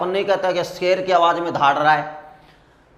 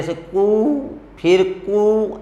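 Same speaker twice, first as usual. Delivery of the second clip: koel call imitation; 3 semitones higher, slower than usual. Shown as a demonstration. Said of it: "वो एक लंबी आवाज़ निकालती है".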